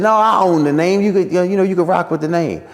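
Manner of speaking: high imitated Martin voice; high voice granting the name as Martin; Martin offering. Martin says he owns the name, high imitation. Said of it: "He said".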